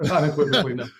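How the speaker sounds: firm no through a light laugh; laughing denial. Real, not acted. Guest laughing off the soldier question, amused and firm. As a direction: laugh it off, then land the no.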